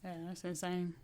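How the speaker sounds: talking with food in mouth; words around a mouthful; mouth full. Real, not acted. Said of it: "I had something in my mouth".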